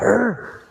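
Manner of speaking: short manly grunt, imitated; mock rugged growl. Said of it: "He just needs a bit of like".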